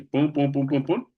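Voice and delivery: rhythmic syllable counting by ear; conteo rítmico. Retold or imitated. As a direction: beat out PUM evenly, one per beat. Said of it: "suena que son de once". (conteo rítmico de sílabas)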